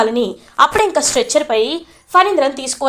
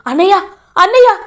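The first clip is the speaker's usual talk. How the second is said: loud, high tearful calling; retold crying; 8 semitones higher, 6 dB louder, faster than usual. Mahendra crying over brother on stretcher, loud tearful call. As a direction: wail his brother's name. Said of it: "ఏడుస్తూ ఉంటారు".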